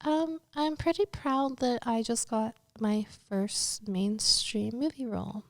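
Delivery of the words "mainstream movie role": whispered secret news. Real, not acted. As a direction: let it slip in a hush.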